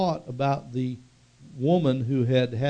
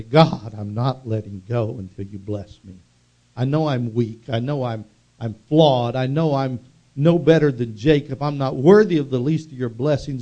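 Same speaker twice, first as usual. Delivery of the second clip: humble plea; 2 semitones lower, 4 dB louder than usual. Acted. Preacher's own prayer at Jabbok.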